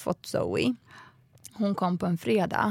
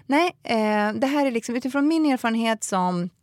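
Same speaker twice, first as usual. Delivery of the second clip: scolding teacher; 3 semitones higher than usual. Retold or imitated. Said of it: "typ nästan skällde ut mig".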